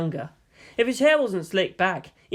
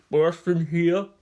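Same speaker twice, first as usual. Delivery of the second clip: croaked; slower than usual. Acted. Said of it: "croaked a rather pudgy animator".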